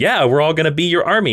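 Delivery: lightly voiced compliant henchmen; acted gym strongmen. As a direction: agree as a readily obedient crowd. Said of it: "And they're like".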